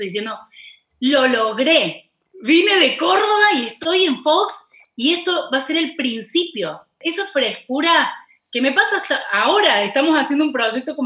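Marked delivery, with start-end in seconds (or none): 1.0-6.8 retold tearful joy. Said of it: "yo lloraba mirando eso".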